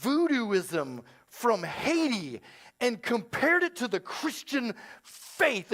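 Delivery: mock-shaken accusation, slowly drawn out; hushed, laboured indignation; Nanette. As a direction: imitate an upset churchgoer, word by halting word. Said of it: "And she's shaking".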